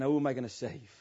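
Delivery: low, soft musing to himself; Jesus as if unsure who to save; mock uncertain wondering. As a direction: dither over who to save.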